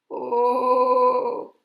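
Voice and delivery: loud, high, drawn-out ooh; big storyteller's ooh; exclaimed oh. Acted. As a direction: hoot a long mock-awed "ooh". Storyteller reacts to excited troll.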